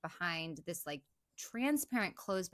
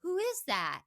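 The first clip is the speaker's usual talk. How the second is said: higher, worried question into the dark; nervous call; 9 semitones higher, 4 dB louder than usual. Retold or imitated. Imitating Claire calling toward the closet, high and uneasy. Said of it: "and says".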